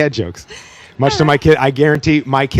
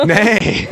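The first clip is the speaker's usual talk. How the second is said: mock neigh; 7 semitones higher than usual. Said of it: "does he neigh in a German accent".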